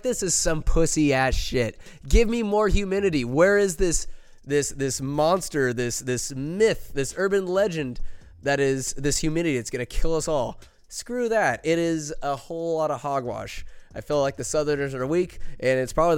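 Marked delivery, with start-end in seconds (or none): 0.0-10.6 loud, mocking challenge to the weather; defiant taunt. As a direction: taunt the humidity, big and brash. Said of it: "I'm like".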